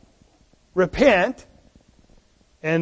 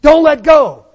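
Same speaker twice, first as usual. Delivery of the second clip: put-on pleading child; 5 semitones higher, 8 dB louder than usual. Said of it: "And they say".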